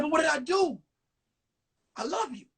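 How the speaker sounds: hammed-up plea to a girlfriend; mock pleading. Boy begs the girlfriend who is dumping him, mock pleading.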